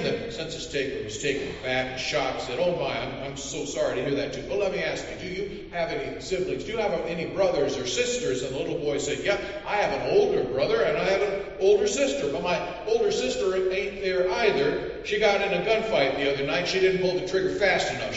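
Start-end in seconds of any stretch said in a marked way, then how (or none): 2.6-8.4 fussy census taker. Acted. Census taker flustered asks. 9.2-18.2 put-on matter-of-fact backwoods boy. Boy tells of sister.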